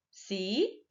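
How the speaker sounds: "Cidadãos" split into ci, da, dãos; teacher sounding out "Cidadãos" piece by piece; syllable by syllable. Shown as a demonstration. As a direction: break "Cidadãos" into separate syllables with clear pauses. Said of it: "a sílaba tônica é a última sílaba".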